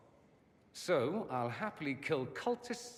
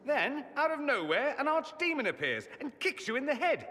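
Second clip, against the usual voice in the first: mock dramatic storytelling; 9 semitones higher than usual. Mocking retelling of adventure.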